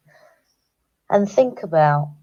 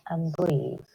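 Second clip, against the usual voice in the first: calm breathing cue; 5 dB quieter than usual. Shown as a demonstration. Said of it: "by the third time you say it".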